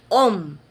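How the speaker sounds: "om" set apart and held firmly; isolated tonic syllable. Shown as a demonstration. Teacher isolates the tonic syllable for students, firm "om". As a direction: sound out "om" as the stressed syllable. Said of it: "la sílaba tónica".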